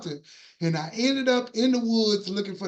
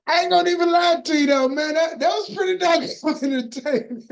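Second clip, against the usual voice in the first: excited; 7 semitones higher, 5 dB louder than usual. Real, not acted. Hyped reaction to the narration.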